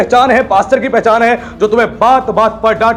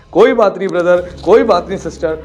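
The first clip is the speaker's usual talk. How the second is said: casual brush-off; 6 semitones lower than usual. Retold or imitated. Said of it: "इतना casual, इतना lightly बोलता है".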